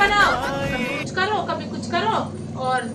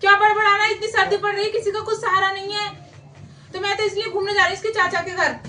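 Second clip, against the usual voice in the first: higher-pitched, indignant comeback; irritated retort; 3 semitones higher than usual. Acted. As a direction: snap back, fed up with no help. Wife snaps back at husband.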